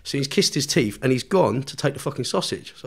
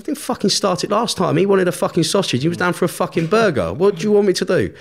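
indignant protest; 7 semitones higher, 6 dB louder than usual. Retold or imitated. Retold protest to prison staff.

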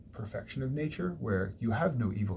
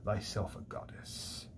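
tempting whisper. Retold or imitated. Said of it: "And then he says".

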